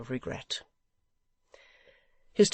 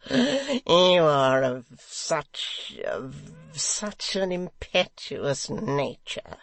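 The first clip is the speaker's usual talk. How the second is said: good-fellow raillery; 2 semitones higher, 5 dB louder, much slower than usual. Acted. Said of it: "utmost good fellowship and the pleasantest raillery".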